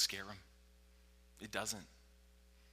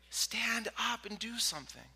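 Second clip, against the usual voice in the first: straining demand; 10 semitones higher than usual. Acted. Same demand, strained hush.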